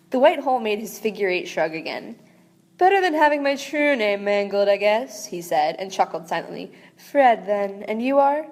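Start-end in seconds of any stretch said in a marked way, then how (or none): 2.8-5.2 a lightly swooping, theatrical star voice, a hint of Snape; swoopy star voice. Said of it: "it gets the swoopy voice". 7.0-8.4 a lightly swooping, theatrical star voice, a hint of Snape; swoopy star voice. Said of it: "it gets the swoopy voice".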